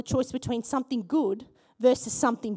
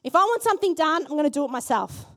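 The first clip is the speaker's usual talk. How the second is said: Martha's thoughts; 3 semitones higher, faster than usual. Pretend. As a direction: voice busy Martha's stubborn thought. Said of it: "You can hear her thoughts".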